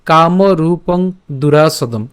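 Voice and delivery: slow, measured Sanskrit shloka reading; verse recitation. Shown as a demonstration. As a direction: draw out each long vowel, phrase by phrase. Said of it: "তো শ্লোকটি হলো".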